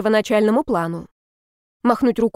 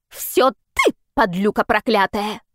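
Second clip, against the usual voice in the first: shrill neighbour; slower than usual. A narrator's reading. Neighbour quarrelling.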